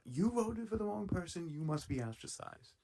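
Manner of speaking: a clumsy, mock Russian accent. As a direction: play a Soviet official in a bad Russian accent. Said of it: "I can't do a Russian accent".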